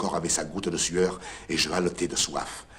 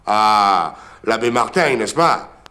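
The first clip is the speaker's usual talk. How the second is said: loud bright Ah of recognition; light up as you recognise him; surprised recognition; 2 semitones higher, 6 dB louder, slower than usual. Acted.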